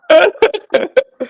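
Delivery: high laugh at a compliment. Real, not acted. Guest laughing at being called the best speaker. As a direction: laugh off the praise.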